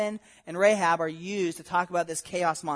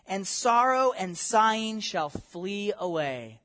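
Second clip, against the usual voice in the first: slower, drawn-out reading; slow solemn repeat; slower than usual. Shown as a demonstration. Preacher repeats the verse for the congregation, slowly. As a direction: let each word land slowly. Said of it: "Did you notice that?".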